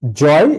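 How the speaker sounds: জয় said with firm stress; stressed syllable. Shown as a demonstration. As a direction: put full weight on জয়. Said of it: "এটা জোর দিয়ে বলা". (জয় জোর দিয়ে বলা)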